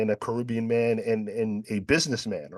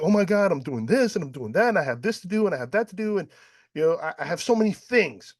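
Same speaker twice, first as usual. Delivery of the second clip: frantic retold outburst; 7 semitones higher than usual. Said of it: "I started bawling".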